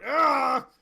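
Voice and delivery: high, loud indignant shout; whiny villain. Acted. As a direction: yell it, blaming your men. GM voices enemy crying out.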